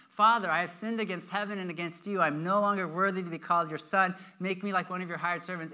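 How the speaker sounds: reciting on a loop, line running into line; rehearsing a speech. Acted. Son practicing his apology on the road home, rehearsed. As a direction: run through it like a memorized speech. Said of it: "practicing this, this little speech".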